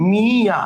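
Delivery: মিয়া with ইয় given its own i-o glide, not an n; natural ইয় sound. Shown as a demonstration. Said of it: "ইয় এর উচ্চারণ স্বাভাবিক". (মিয়া শব্দে ইয়-র স্বাভাবিক উচ্চারণ, ন নয়)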